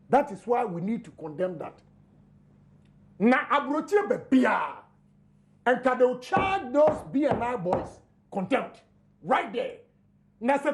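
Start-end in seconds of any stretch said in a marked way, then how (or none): 3.2-7.5 heated shout. Real, not acted. Heated political argument.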